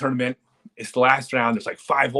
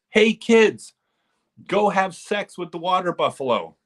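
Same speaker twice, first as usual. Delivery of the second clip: put-on high, loud shout to the kids; mock yell; 9 semitones higher, 4 dB louder than usual. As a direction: bellow the botched order across the field. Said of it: "what he actually said was".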